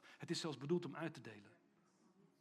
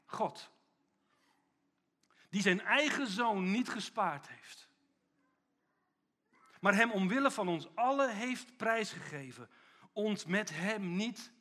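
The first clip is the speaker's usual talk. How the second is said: loud, slow scripture reading with long pauses; preacher reading Romans aloud with force; scripture proclaimed; 3 semitones higher, 7 dB louder, slower than usual. Acted. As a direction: declaim the verse like a herald. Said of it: "Dan zegt hij".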